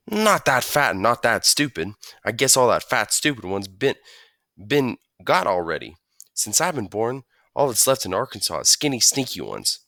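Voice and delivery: put-on new kid praising the sandwich, chattering on; country boy. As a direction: chatter like a friendly farm boy. Rufus explaining Arkansas squirrels.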